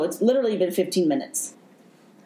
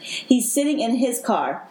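emotional; 4 semitones higher, slower than usual. Real, not acted.

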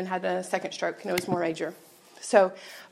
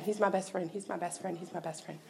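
mother in shock; 9 dB quieter than usual. Retold or imitated. Mother in shock, repeating herself.

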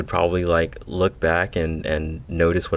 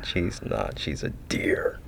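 demon voice; 6 dB quieter, slower than usual. Acted. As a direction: hiss it like a demon, hushed. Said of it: "Your demon voice is beginning to confuse people".

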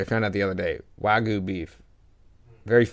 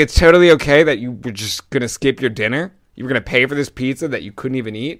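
louder, indignant echo; retold incredulous retort; 6 dB louder than usual. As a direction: throw the reassurance back in disbelief. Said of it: "I was like".

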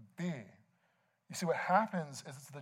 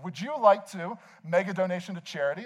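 imitated cashier, slightly raised and higher; loud cashier; 4 semitones higher, 4 dB louder than usual. Cashier asking shopper for donation, mildly loud. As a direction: ask it for the whole line to hear. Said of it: "they say it very loudly".

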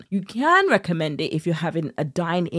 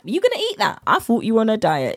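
mock nagging friend; 5 semitones higher than usual. Mock friend scolding diet.

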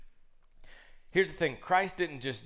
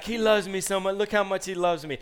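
imitated little girl, higher and louder; lightly voiced child cooing insistently; gushing daughter; 6 semitones higher, 5 dB louder than usual. Daughter bragging to dad about rabbit, gushing.

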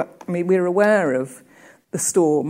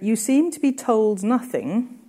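reading a quotation aloud, a little higher; quoted reading; 4 semitones higher than usual. Shown as a demonstration. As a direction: read the quote out with care. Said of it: "and I quote".

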